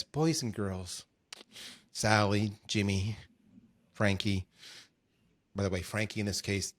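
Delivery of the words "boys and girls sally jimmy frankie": bedtime uncle voice. Pretend. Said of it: "and he says".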